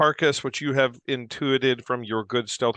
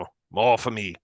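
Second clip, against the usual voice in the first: lightly voiced granny; a hint of the old Duergar hostess; granny Duergar woman. Granny Duergar answers guest declining food, lightly voiced granny. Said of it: "A granny Duergar woman".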